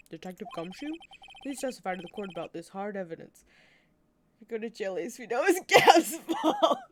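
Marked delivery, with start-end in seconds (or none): 0.1-3.4 lightly deepened prosecutor; understated smoky questioning; smoky deep voice. Acted. Prosecutor asks detective to testify in smoky deep voice. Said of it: "How's this smoky, kind of deep voice?".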